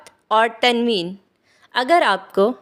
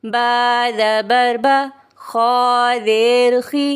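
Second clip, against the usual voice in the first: spelling-drill recitation. Shown as a demonstration. Teacher demonstrating Qaida spelling to learners, measured drill chant. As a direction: chant each letter, then join the syllables. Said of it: "इस तरह से करेंगे".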